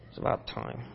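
a hushed secretive whisper. Shown as a demonstration. Pastor showing yet another inflection to the congregation, whispered. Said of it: "when I say it that way".

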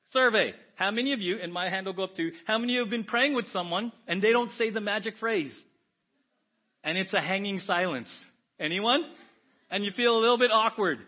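loud, high rousing appeal; rally the room with a show of hands; rousing preaching. Real, not acted. Preacher polling the congregation, loud and rousing.

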